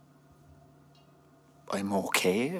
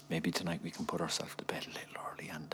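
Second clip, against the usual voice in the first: hushed, softer intimate invitation; seductive whisper; 3 semitones lower, 10 dB quieter, faster than usual. Acted. Husband coaxing tired wife to bed, soft whisper. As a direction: breathe it close, coaxing her to bed.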